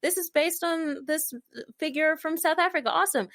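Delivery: high, bright fake enthusiasm; chirpy excited. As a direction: gush like a delighted actor. Mock cheerful reading of script.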